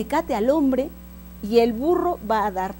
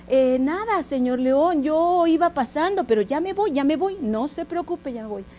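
trembling donkey; 2 semitones higher than usual. Acted. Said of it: "el burro temblando le dijo".

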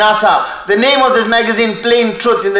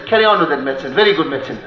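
cheerful deaf reply; 7 semitones lower, 4 dB quieter, much faster than usual. Retold or imitated. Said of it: "he says".

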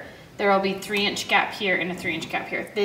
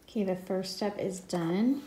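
tongue-tied, stumbling over words; with a sore jaw; 7 dB quieter than usual. Real, not acted. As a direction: struggle to get the words out. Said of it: "Talking is hard today".

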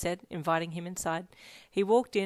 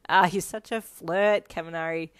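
playful giggly; 8 dB louder than usual. A narrator's reading. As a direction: tease a flirt, drawing it out. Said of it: "you giggled and playfully".

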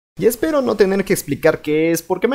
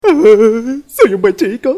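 slow, drawn-out, higher with a laugh; slow singsong good boy; 4 semitones higher, 7 dB louder, much slower than usual. Acted. Kid promises mom he'll behave, slow singsong. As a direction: coo it out sweetly to earn candy.

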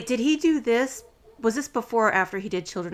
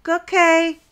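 loud, higher drawn-out mock okay; grudging agreement; 7 semitones higher, 8 dB louder than usual. Friends indulge the hero's toast, mock grudging agreement. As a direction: stretch it out, humoring the lovesick friend. Friends reluctantly go along, retold.

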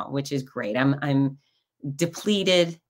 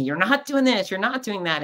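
nagging criticism; 5 semitones higher than usual. Retold or imitated. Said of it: "he's totally dogging me".

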